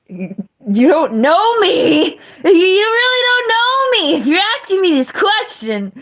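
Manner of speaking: high, cracking wail broken by laughs; laugh-cry it like a wronged child; hammed-up anguish, laughing through the words; mock outrage through laughter. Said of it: "look at him like".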